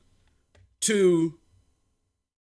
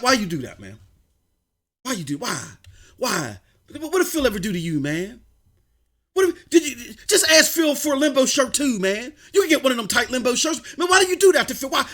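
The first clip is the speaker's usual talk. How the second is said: lightly voiced upset caller, soft and low; mock a hurt caller pleading on the phone; 3 semitones lower, 4 dB quieter than usual. Voicing upset callers' complaints.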